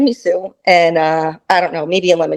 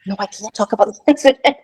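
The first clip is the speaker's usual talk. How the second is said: laughing through the refusal; real, giggly objection; laughing protest; faster than usual. Real, not acted. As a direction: protest quickly, breaking into laughter. Embarrassed, laughing refusal of story.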